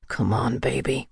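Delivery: low, softened male coaxing; urging on. A narrator's reading. Michael encouraging Rika, low and urging. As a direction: coax quietly, dropping the pitch. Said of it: "Michael urged me on".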